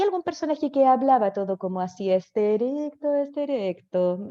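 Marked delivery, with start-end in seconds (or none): 2.1-4.3 put-on slow affected "este erecto", like a snobbish old lady; posh theatre lady. Imitating a snobbish theatre character's speech. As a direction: drawl it like a posh old woman. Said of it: "personaje que hablaba así".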